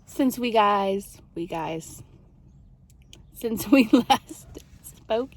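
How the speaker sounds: giggling through the words; laughing. Real, not acted. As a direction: laugh while tripping over the words. Laughing while stumbling over words.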